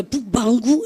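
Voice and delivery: 북반구 said loosely, as if tripping on it; poorly articulated demo. Shown as a demonstration. Teacher showing students how hard it is, 북반구 poorly articulated. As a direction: fumble the consonants of 북반구. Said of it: "이렇게 발음 잘 안 된 거 보세요".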